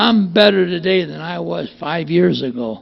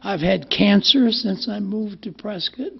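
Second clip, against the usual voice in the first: a light impression of an old man listing his troubles; imitating Bill D; 8 dB louder than usual. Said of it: "he used to talk like this".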